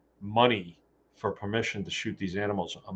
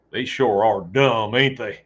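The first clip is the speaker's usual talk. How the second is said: put-on southern accent; 4 dB louder, slower than usual. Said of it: "putting on my southern accent".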